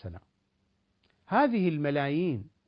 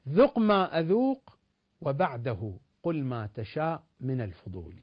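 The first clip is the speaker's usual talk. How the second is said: slow, measured verse with emphatic openings; poetry recitation; slower than usual. Acted. Recites verse to close his point. (إلقاء شعري متأنٍّ)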